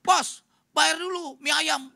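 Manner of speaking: loud, slow shout across the room; shouted demand. Retold or imitated. Shop owner shouting at fleeing pastor to pay, loud. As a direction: yell for payment. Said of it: "Enci langsung teriak kepada saya".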